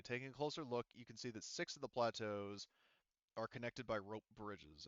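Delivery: lightly read-aloud scene description; game master scene reading. Acted. Game master describing the planet to his players, read-aloud narration. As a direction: paint the jungle for the players, evenly.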